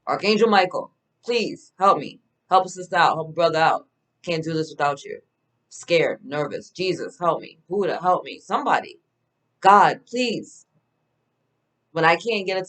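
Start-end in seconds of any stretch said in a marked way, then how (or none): 0.1-10.7 mock desperate plea, a bit louder; a touch of a frantic prayer; pleading prayer. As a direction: beg the angels for help, half-joking. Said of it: "call on the angels".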